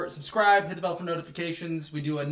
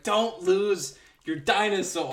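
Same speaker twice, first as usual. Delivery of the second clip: slow, drawn-out mock plea; hammed-up heartfelt urging; mock-earnest plea; 3 semitones higher, 4 dB louder, slower than usual. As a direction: stretch it out like a movie's big moment. Retold heartfelt movie line.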